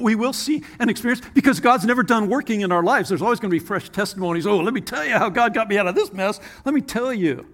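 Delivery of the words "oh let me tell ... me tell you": higher-pitched, keen storytelling; bursting to share good news; acted eager testifying; eager testimony. Acts out eager testimony to others.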